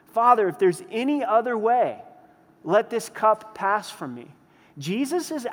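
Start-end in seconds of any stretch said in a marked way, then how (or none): 0.0-4.3 louder, higher anguished plea to the Father; a preacher re-enacting a desperate prayer; vehement cry. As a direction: cry it out as if begging for a way out. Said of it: "Vehement cries, intense cries".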